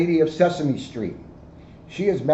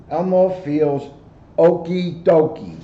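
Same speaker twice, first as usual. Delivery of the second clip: slow, lightly voiced Elmo; a hint of Elmo's cheer; light Elmo impression; 4 dB louder, slower than usual. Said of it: "said Elmo".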